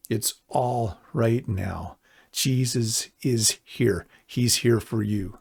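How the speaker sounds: slow it down and comfort them. Real, not acted. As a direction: pastor closing in slow comfort. Comforting close of altar call.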